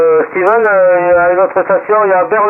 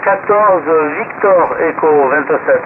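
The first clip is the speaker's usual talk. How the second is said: lentement, en détachant chaque mot de l'indicatif; épeler l'indicatif posément pour corriger; indicatif corrigé; slower than usual. Real, not acted. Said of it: "un petit rectificatif sur mon indicatif". (correction lente et appuyée)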